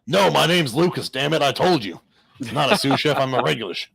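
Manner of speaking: playful huffy correction, pushed up and loud; indignant outburst. Acted. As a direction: insist on it with comic exasperation. Indignant joke quote of Lucas.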